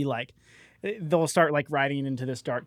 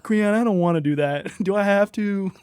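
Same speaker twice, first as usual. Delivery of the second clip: lightly voiced reluctant steed; Mischief; 2 semitones higher than usual. Steed resists its rider's orders to push his buttons, mildly reluctant. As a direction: plead to get out of it. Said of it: "Mischief, like, resist to do things".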